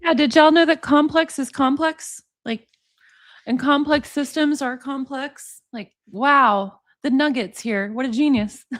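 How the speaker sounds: mock amazement at a non-revelation; sarcastic awe. Host mocking a clip's so-called genius, sarcastic awe. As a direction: act amazed by the obvious, sarcastically. Mocks clip as obvious wisdom.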